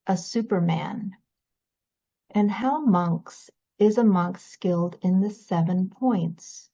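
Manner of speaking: measured sutta reading with pauses between phrases; scripture reading. Acted. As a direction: read the teaching aloud, phrase by phrase. Reads the sutta aloud.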